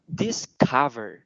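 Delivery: "discover" with the middle vowel like Vietnamese Á. Shown as a demonstration. Teacher explains the sound to the class, Á-like vowel. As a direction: open the COV of "discover" to an Á sound. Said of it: "âm này nó phát âm giống như kiểu là âm Á".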